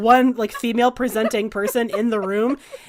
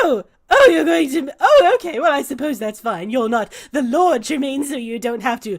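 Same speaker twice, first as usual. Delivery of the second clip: flustered visitor. Acted. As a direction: recover awkwardly from the surprise. Vander fumbles, then accepts.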